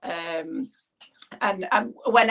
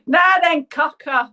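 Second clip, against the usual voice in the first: Doncaster greeting; 6 semitones higher, 7 dB louder than usual. Retold or imitated. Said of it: "they used to call each other cockers".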